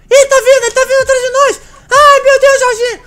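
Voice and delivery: loud, high panicked yelling; being chased. Pretend. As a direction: shout in mock panic while fleeing. Fugindo do palhaço. (gritando em pânico, fugindo)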